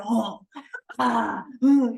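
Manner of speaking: loud lying-down oh ah ooh; settling groan sounds. Retold or imitated. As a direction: sigh out like a dog lying down. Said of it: "or they lie down".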